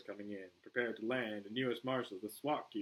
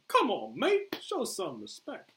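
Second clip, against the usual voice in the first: high, slow Australian protest; Australian accent; 11 semitones higher, 9 dB louder, slower than usual. Acted. Boomer demands respect from Flag, Australian accent.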